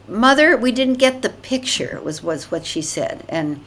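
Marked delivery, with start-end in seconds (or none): 0.1-2.0 loud, high and pushy; rude demanding woman. Retold or imitated. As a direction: demand it like an entitled tourist. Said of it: "and then the woman said".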